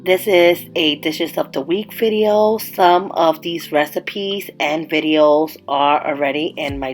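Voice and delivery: congested voice from a cold; stuffy nose. Real, not acted. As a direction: talk through a blocked nose. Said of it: "If you hear me sounding funny".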